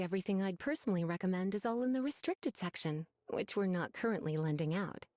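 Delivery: a touch of menace under polite librarian calm; ominous tone. Acted. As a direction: let the restricted section sound menacing. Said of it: "What's with your ominous tone?".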